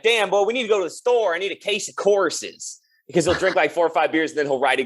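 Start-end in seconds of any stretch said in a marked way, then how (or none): 0.0-2.8 Southern drawl. Retold or imitated. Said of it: "He's like".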